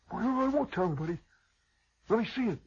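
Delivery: put-on high, eager little kid; small boy begging to see. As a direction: pipe up like a curious small boy. Kid voice of Morton.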